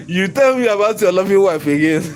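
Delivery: words pushed out through laughter; laughing. Real, not acted. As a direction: laugh while you mock him. Laughing through mocking retort.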